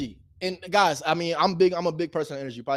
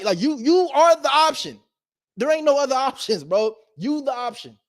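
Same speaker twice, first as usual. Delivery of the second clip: emphatic; 8 semitones higher than usual. Real, not acted. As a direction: drive it home, pitched up. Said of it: "emphatic build".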